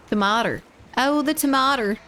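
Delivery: tomato said tuh-MAH-der with an r; tomato as tuh-MAH-duh; true pronunciation. Shown as a demonstration. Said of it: "the true pronunciation but me".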